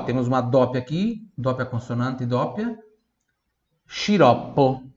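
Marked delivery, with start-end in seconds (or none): 3.8-4.8 sciroppo said slowly, shi-ROP-po; slow Italian teacher model. Shown as a demonstration. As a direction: draw out sciroppo.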